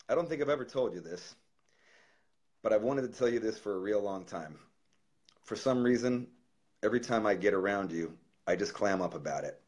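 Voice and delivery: quiet, real emotion held back after a sigh; getting emotional. Real, not acted. Reading his heartfelt letter to Daryl, quietly choked up. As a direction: let the feeling catch in a hushed voice. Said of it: "I'm getting all fucking emotional now".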